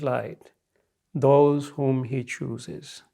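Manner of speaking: measured sacred-text reading, lingering at phrase ends; parable recitation. Acted. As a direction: recite it phrase by phrase, with long pauses.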